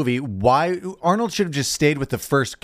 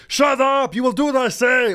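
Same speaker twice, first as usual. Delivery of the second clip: put-on Arnold yelling at kids; 9 semitones higher than usual. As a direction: bark it like a drill-sergeant cop. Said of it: "Arnold was like".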